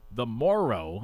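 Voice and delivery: "Morrow" with both syllables clearly sounded; don't swallow the end of "Morrow"; enunciated name. Shown as a demonstration. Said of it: "I have to make sure I enunciate".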